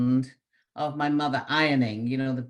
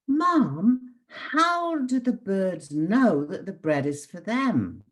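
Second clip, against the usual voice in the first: put-on child's question; 7 semitones higher, 3 dB louder, slower than usual. Child voice asking mother.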